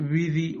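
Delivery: "بذي" with b leaking toward v; wrongly weak ba. Shown as a demonstration. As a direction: loosen the lips on the b of "بذي". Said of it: "فلا تقل". (إرخاء باء "بذي" بلا شدة)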